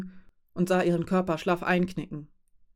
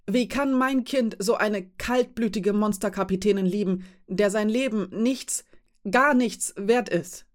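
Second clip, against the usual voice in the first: bitter accusation; 3 semitones higher than usual. Acted. Mother accusing the cold captain, rising bitter anger. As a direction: spit out the final words in disbelief.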